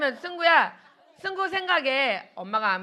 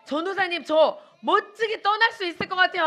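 higher, lightly acted eager child; eager child's pledge; 4 semitones higher than usual. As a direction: play a child volunteering confidently.

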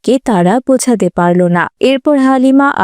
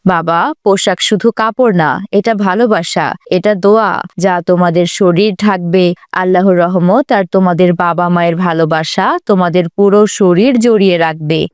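loving mother; 3 semitones lower than usual. Acted. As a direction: console the children with faith and love. (মমতাময়ী মায়ের সান্ত্বনার গলা)

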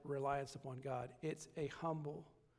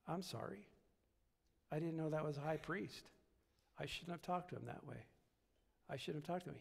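humble apology; 2 semitones lower, 6 dB quieter than usual. Retold or imitated. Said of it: "He simply says".

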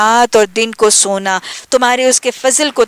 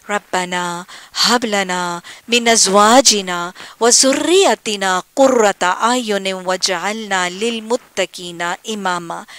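slow, devout recitation of the Arabic; Quranic dua recitation; 2 semitones lower, slower than usual. Acted. Teacher leading the class in a Quranic prayer, slow devout recitation. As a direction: pray it out slowly and earnestly.

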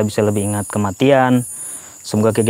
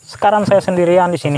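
higher, mournful lament; lonely corpse lament; 7 semitones higher than usual. Pretend. Corpse in the grave mourning alone, higher lament. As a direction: wail it out alone in the dark. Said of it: "Saya coba gambarkan perasaan mayat".

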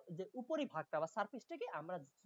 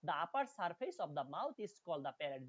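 slow, careful English text reading; slow reading aloud; much slower than usual. Shown as a demonstration. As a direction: read each word out slowly for students. Reads English text slowly. (ধীরে ধীরে পড়ে শোনানো)

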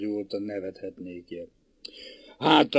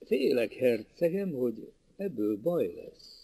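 worried; 5 dB quieter than usual. Acted. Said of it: "aggódva".

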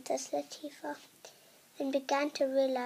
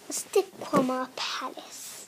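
whispered repeat; 4 dB louder than usual. Shown as a demonstration. Narrator echoing the palace name in a whisper. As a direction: breathe the name back in a hush.

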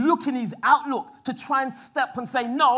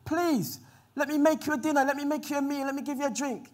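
a touch higher, eager begging host; lightly voiced Lot, coaxing his guests in; pleading; 3 semitones higher than usual. Lot begging the angels to stay, mildly pleading. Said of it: "He pleaded with the angels and said".

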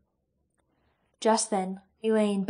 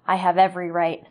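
defiant retort; 7 dB louder than usual. Acted. Roran answers Sloane defiantly.

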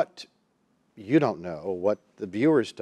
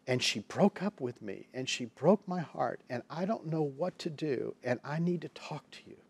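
retold crying brother; 3 semitones higher than usual. Brother confiding about a breakup, lightly imitated tearfulness. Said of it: "and he's still crying".

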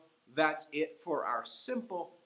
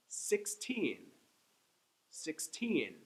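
put-on Sixteen with the teen stressed; six-TEEN, second syllable strong; much slower than usual. Shown as a demonstration. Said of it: "I'm saying each one twice".

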